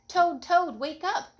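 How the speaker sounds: excited wake-up call. A narrator's reading. Frog wakes Toad.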